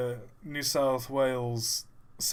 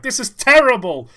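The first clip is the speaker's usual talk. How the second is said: much higher, louder panicked cry; 13 semitones higher, 14 dB louder than usual. Retold or imitated. Jafar panicking at bad news, loud high cry. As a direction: wail it like disaster struck. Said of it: "Jafar's like".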